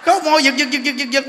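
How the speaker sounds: high, loud mock blubbering with lips trembling; imitating twitchy crying. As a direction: ham up a sobbing woman, lips twitching. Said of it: "khóc mà đứng ngay cái mặt mà cứ làm nè".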